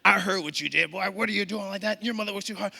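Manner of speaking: high-pitched imitated neighbour mom; acted scolding. Moms along the route scold the boy, high-pitched. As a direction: scold the passing child in a high voice.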